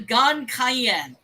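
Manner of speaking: Gan Cayenne slowly, as gan kai-YEN; careful Gaelic attempt. Shown as a demonstration. Listing possible names of the creature, Gan Cayenne slow and careful. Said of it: "gonna be butchering the pronunciation".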